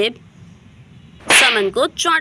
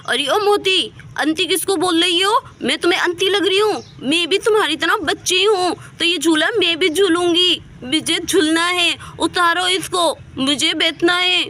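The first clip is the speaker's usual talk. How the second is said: put-on high, babyish indignant whine; lisping child insisting on a turn; childlike Saman, indignant; 5 semitones higher than usual. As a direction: argue back like an offended little girl. Childlike Saman argues back.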